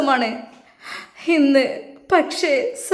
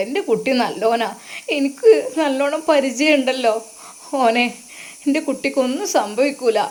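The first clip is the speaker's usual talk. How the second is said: put-on old mother consoling; 2 semitones lower than usual. Mother consoles daughter-in-law.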